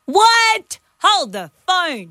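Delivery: mock astonishment. Host hears co-host has no mates, mock astonishment. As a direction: play up the shock, stretching it out.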